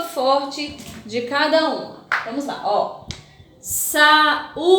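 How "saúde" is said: Saúde drawn out, leaning hard on the ú; strong syllable aloud. Shown as a demonstration. Teacher showing pupils the strong syllable, Saúde with stressed ú. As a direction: sound out Saúde with a long, strong ú. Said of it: "vamos pronunciar em voz alta e descobrir".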